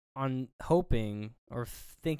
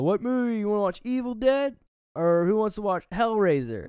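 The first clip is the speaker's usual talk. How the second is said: much higher, louder excited party voices; party kids excited; 10 semitones higher, 7 dB louder than usual. Retold or imitated. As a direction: call out movie picks, hyped. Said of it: "you know".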